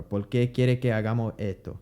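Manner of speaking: Por qué with l for r and no s, Puerto Rican accent; quick Puerto Rican speech; Puerto Rican Spanish. Shown as a demonstration. Teacher repeating the Puerto Rican sentence. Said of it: "you don't aspirate".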